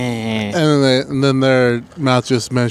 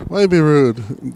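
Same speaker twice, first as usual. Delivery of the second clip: mock scolding voice; slower than usual. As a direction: tease it like a fake scold. Mock scolding line, repeated.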